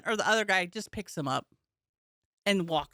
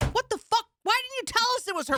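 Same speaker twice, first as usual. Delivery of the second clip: mock outrage; faster than usual. Comic to drunk fan repeating it's her birthday, mock outraged. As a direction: ham up being scandalized, quickly.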